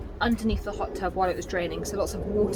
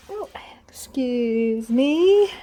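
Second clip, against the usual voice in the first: whispered; 4 semitones higher, 8 dB louder, much slower than usual. Real, not acted. Squeezing past someone on stairs.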